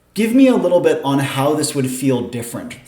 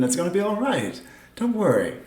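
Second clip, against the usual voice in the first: soft, higher soothing tone; reassuring; 5 semitones higher, 5 dB quieter than usual. Acted. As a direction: soothe a frightened stranger gently. GM voices someone reassuring her.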